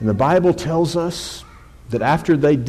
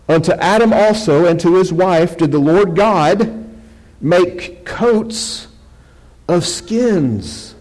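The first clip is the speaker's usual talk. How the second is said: measured, projected verse reading; Scripture reading; 3 semitones higher, 3 dB louder than usual. Acted. Preacher reads verse twenty to church, projected Scripture reading. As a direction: read it out, pausing on the final phrases.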